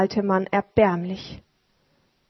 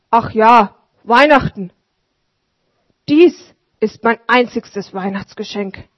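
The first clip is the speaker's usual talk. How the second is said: louder, slowing on sehr gütig; old street sweeper, moved; grateful old sweeper; 7 dB louder than usual. Acted. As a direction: thank him humbly but heartily. Sweeper voiced.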